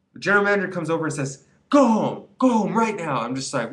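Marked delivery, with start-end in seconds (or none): 1.7-3.2 loud, higher, barked order to leave; angry order. Retold or imitated. General manager sending the stoned employee home, loud angry order. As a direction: boss throwing you out on the spot, full volume.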